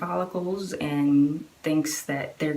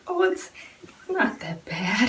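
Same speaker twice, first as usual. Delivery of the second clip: forced reassurance; 6 semitones higher than usual. Retold or imitated. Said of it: "caught herself and she was like".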